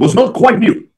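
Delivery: muffled bad mic; underwater. Real, not acted. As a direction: sound like you're underwater. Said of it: "it sounds like you're underwater here".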